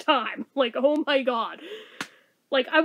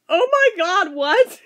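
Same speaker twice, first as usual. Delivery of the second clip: startled mom; 4 semitones higher, 7 dB louder, slower than usual. Retold or imitated. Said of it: "And she's just like".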